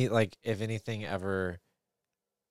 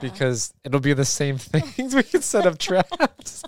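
laughing; 8 semitones higher, 10 dB louder, slower than usual. Real, not acted. Playful scheming laugh.

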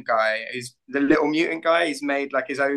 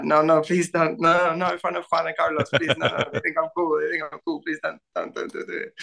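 hammed-up begging, higher, fading to a whisper; mock pleading; 4 semitones higher than usual. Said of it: "I'm like".

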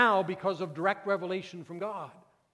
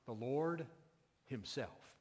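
"The Lord", pause, then "himself" set apart; emphasis on himself; 3 semitones lower, 9 dB quieter, slower than usual. Shown as a demonstration. Preacher pointing out the verse's emphasis, stressing "himself" quietly. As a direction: weigh "himself" on its own after a pause. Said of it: "Notice that emphasis".

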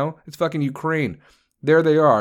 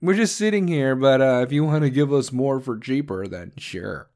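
mock sly China. Ranter lightly voicing China's smug indifference. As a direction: play it smug and noncommittal. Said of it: "China's over there like".

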